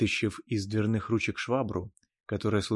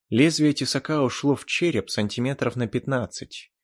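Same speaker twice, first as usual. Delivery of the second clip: plain reading voice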